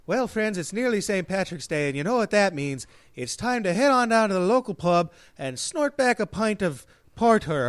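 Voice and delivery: a lighter, calmer take on the pub ad; toned-down Irish ad read. Shown as a demonstration. Showing how the radio ad could sound without the silly leprechaun voice. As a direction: read the ad the sensible way, a hint of Irish. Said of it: "you could say".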